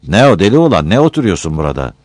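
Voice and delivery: loud, rough village headman scolding; gruff scolding. Acted. Headman scolds Battal for sitting around, loud and rough. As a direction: bark it at the idle young man.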